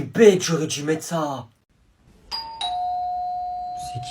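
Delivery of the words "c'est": tag. Acted. Voice behind the door.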